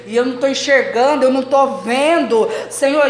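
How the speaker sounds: insistent complaint to the Lord, lightly acted; blinded believer's plea. Preacher voicing a blinded believer to the Lord, mild plea. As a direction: plead as if groping blind. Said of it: "a gente vai ficando igual Saulo, cego".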